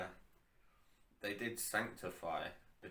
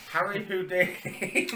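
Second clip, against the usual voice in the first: high mock voice; 12 semitones higher, 14 dB louder, slower than usual. Laughing high reset to topic.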